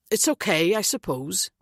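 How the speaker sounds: put-on lilting Welsh accent, lightly done; easygoing Welsh lilt. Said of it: "his Welsh accent lilting".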